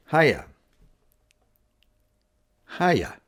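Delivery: high, cheery Hiya; a perky hello to a friend; bright chirpy hiya. Shown as a demonstration. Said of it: "Another one is just simply".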